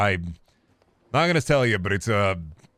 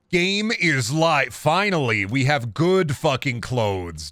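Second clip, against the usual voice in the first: excited; 2 semitones higher, slower than usual. Real, not acted. Celebrating new shirt.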